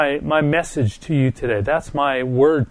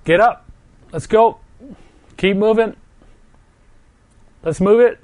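loud, higher shouting to rouse a friend; rousing shout; 8 semitones higher, 5 dB louder than usual. Retold or imitated. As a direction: yell at him to get moving. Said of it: "grab me by the neck and say".

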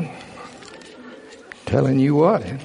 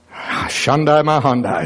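slow, drawn-out tongues utterance; speaking in tongues; slower than usual. Real, not acted. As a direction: let the tongues flow slowly. Preacher bursts into tongues.

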